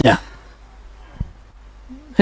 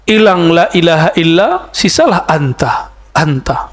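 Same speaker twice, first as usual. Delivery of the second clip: fading whisper of devotion. Shown as a demonstration. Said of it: "Terasa hadir oleh beliau".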